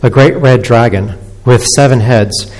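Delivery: measured, solemn public Bible reading; scripture reading. Acted. Preacher reads Revelation to the standing congregation, measured scripture reading. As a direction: read it out to a standing congregation, phrase by phrase.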